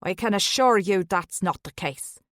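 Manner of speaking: put-on thicker Irish accent. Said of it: "his accent thickening".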